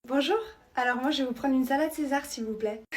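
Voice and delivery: a hint of the girly little-girl voice; put-on cutesy voice. Girl orders a salad in a mildly put-on babyish voice. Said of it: "pourquoi tu prends cette voix-là?".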